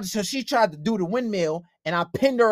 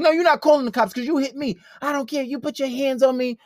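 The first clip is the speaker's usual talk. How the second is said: heated retort; 5 semitones higher than usual. Retold or imitated. Acting out argument over calling police.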